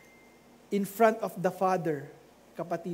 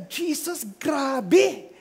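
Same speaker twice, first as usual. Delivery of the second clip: excited disciples; 5 semitones higher, 4 dB louder than usual. Retold or imitated. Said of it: "sabi nila".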